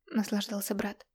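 ordinary delivery, nothing marked

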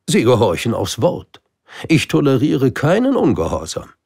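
high, loud royal boast; stern king. Acted. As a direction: declare absolute power. (strenger König, hoch und laut)

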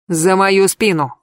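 ordinary delivery

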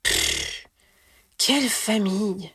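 exasperated puff, then mock outrage; mock indignation. A narrator's reading. Harry mock-complaining about the Weasleys, playful huff. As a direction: pretend to be offended, half-joking. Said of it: "feignit de s'indigner Harry".

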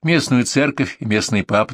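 usual speaking voice

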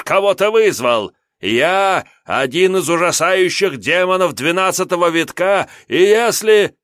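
high, loud blustering imp; a cowardly demon bluffing loudly; panicky little demon. Acted. Imp demon voiced in story. (визгливый трусливый демон)

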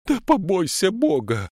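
put-on high, loud wailing old woman. A narrator's reading. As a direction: wail in terror to the policeman. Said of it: "заголосила бабка".

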